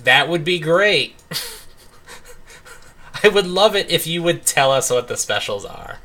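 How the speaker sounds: mock-polite customers prodding the waitress; sarcastic politeness. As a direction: pretend to be delighted to be kept waiting.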